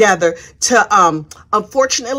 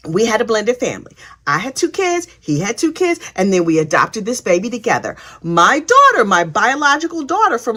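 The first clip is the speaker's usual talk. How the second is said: put-on innocent girl voice. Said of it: "innocent girl voice".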